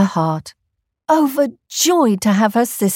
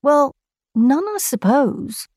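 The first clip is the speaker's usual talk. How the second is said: sheepish kangaroo; 6 semitones higher than usual. Acted. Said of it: "said Kangaroo".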